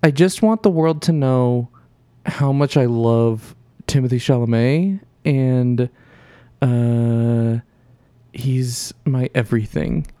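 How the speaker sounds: slow imitation of a friend, pitch brought down; Sid. Host imitates absent co-host gushing over an actor, slow mock-earnest voice. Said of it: "I gotta bring it down a little bit".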